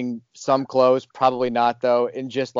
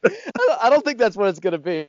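much higher, put-on doubtful voice; a squeaky show of disbelief; mock doubt; 10 semitones higher than usual. Retelling his reaction.

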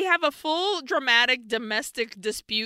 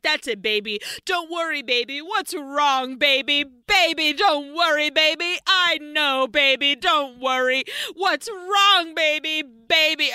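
higher, insistent mock soothing; fussing mother; 4 semitones higher than usual. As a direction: imitate a mom fretting over her baby. Acts mother fussing over her son.

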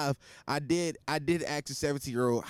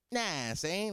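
lightly mocking a wannabe rapper; mildly imitated New York rapper; mock fake-deep New Yorker; 3 semitones higher, 4 dB quieter than usual. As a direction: put on a hint of posturing tough guy. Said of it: "that's how you guys sound".

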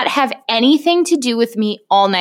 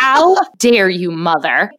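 outraged dog; slower than usual. Pretend. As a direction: demand it like a wronged diva. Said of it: "she stares at me like".

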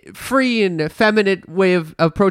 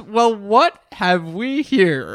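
Sigmund Freud voice; 3 semitones higher, much slower than usual. Retold or imitated. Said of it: "named Sigmund Freud join us".

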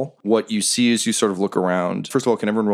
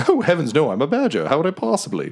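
a courteous creature introducing itself; polite badger; 7 semitones higher, faster than usual. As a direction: badger introducing himself to Quinny, high and proper.

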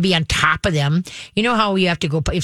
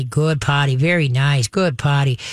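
very calmly; 4 semitones lower, slower than usual. Shown as a demonstration. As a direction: praise gently, no excitement. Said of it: "very calmly".

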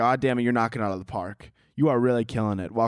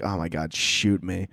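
mock despair; 5 semitones lower, slower than usual. His let-down reaction to her niceness.

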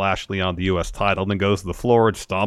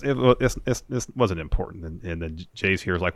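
ordinary delivery

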